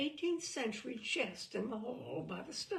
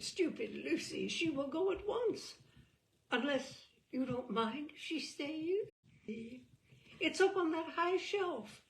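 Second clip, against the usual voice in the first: higher, overly sweet apologetic cousin; simpering Cousin Lucy; 4 semitones higher than usual. Acted. Cousin Lucy pleads with you to steady her ladder, sugary and apologetic. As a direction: coo it like a fussy, too-polite cousin.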